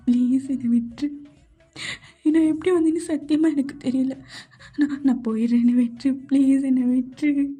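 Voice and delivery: frightened, tearful begging; halting, sobbed pleas with stumbled restarts; crying plea. Acted. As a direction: plead through tears with a captor. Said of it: "ஏன்டி அழுகுற?".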